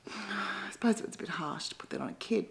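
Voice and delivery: unvoiced confiding whisper; whispered aside. Real, not acted. Guilty aside to the audience, whispered. Aside about harsh words to kid.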